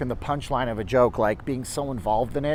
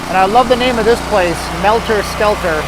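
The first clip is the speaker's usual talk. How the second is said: delighted; 6 semitones higher, 9 dB louder than usual. Real, not acted. Delighted sign reading.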